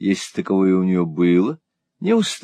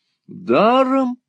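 very high, drawn-out «Даром»; exclaimed question; much slower than usual. A narrator's reading. Wife hearing of a free horse, high exclamation. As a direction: pounce on «Даром» in high surprise. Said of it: "воскликнула мадам".

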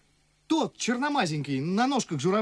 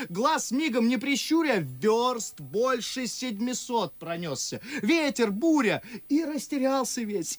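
higher, heated account of a hard journey; impassioned recounting; 3 semitones higher than usual. Acted. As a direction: pour out the ordeals of the road. Чацкий пылко рассказывает о дороге. (пылко, с жаром)

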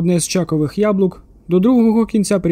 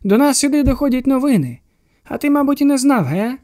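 higher, sing-song madman voice; odd patient; 6 semitones higher than usual. A narrator's reading. The bald patient teases Teddy, a higher, lightly voiced unhinged man. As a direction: play the patient as cheerfully unhinged.

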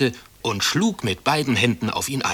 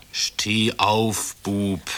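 pleading; much slower than usual. A narrator's reading. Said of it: "flehte Herr Schoppenstecher".

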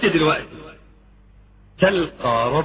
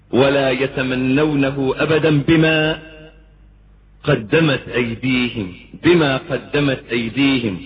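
Quran recitation; 2 semitones lower than usual. Acted. Preacher to congregation, slow reverent recitation. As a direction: intone the verse slowly and gravely.

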